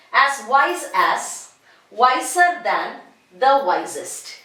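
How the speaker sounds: slow, each form spaced out; slow drilled pattern. Shown as a demonstration. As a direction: recite the pattern slowly for children. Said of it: "Let's come to this example".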